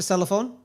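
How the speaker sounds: "cellophone" said with an extra uh in the middle; mispronounced cellphone. Real, not acted. Co-host naming a mobile phone, "cellophone" in three syllables.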